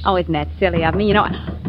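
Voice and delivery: fast, flustered scatterbrain; dotty old lady. Acted. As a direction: babble like a silly forgetful old lady. Mary stalls the waiter, dithering.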